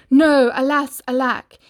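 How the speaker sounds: loud, hammy lament; anguished cry. Acted. Prince begging Cindy to stay, loud mock despair. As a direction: cry out as she slips away. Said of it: "The prince cried".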